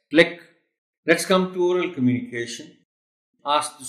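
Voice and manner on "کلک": "کلک" said loud and high with weight on the L; stress on the L. Shown as a demonstration. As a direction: press the L in "کلک". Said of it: "ایل پر stress ہے". ("کلک" میں ایل پر زور)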